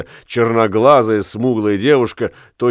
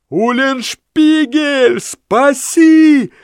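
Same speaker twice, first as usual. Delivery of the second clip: high, slow, loud desperate bellow; bellowing for help; 4 dB louder, much slower than usual. Acted. Lamme about to be whipped, bellowing to Ulenspiegel. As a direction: roar for your friend to save you. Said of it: "взревел Ламме".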